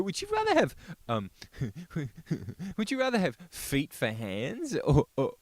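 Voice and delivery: high mock whiny voice. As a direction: parody someone asking. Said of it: "they go".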